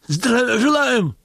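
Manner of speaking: high, slow, drawn-out shouted salute; shouted greeting. Acted. Convict actor jumping up to salute Dzerzhinsky, shouting slowly. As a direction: snap to attention and shout it. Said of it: "крикнул он".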